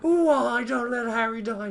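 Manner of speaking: hammed-up wailing phoenix. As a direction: cry out like a sobbing bird. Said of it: "He's like".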